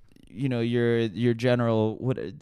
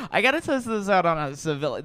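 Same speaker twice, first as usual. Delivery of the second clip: brighter repeat; 5 semitones higher, faster than usual. Retold or imitated. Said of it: "You know".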